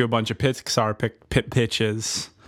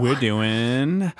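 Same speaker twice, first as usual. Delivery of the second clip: sexy voice. Pretend. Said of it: "saying it in a deceptively sexy voice".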